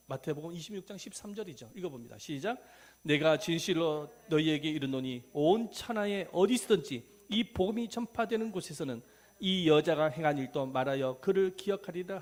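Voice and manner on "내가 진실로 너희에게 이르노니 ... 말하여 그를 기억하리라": loud, measured recitation of a Bible verse; scripture reading aloud. Shown as a demonstration. Preacher leads congregation in Matthew verse, loud scripture recitation. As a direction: declaim the verse firmly.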